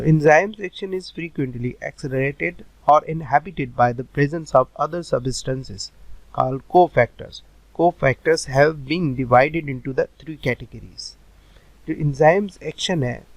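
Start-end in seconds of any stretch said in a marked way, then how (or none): 0.0-11.1 slow, word-by-word dictation pace; slow note dictation. Shown as a demonstration. Teacher slowly dictating notes to students, word by word. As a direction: read it out slowly so students can write.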